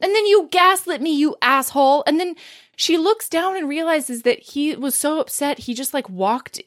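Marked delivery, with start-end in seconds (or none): 0.0-2.0 mock-indignant accusation. Joe accusing her of gaslighting, acted indignation. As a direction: finish the acted tirade indignantly.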